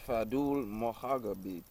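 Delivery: put-on "Fadul Mohagabib" spelled out syllable by syllable, accent on the U of "Fadul"; name in syllables. Guest teaching two little girls his name, syllable by syllable. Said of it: "he repeated in syllables".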